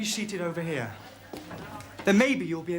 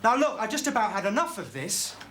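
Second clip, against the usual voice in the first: mildly raised voice, fed up; exasperated raised voice; 2 semitones higher than usual. Acted. Teacher fed up with two cheeky pupils, exasperated. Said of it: "it's even worse when you shout".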